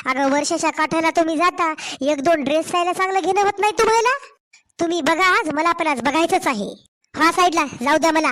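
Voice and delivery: heated, indignant back-talk to her mother-in-law; angry daughter-in-law. Acted. Daughter-in-law snapping back at her mother-in-law over her parents' gifts, heated.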